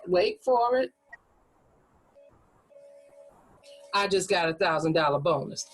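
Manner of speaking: wait for it, long pause, then the bonus; pregnant pause. Shown as a demonstration. Teacher shows a pause before revealing the bonus. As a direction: hold the beat before the reveal. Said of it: "that might be your pregnant pause".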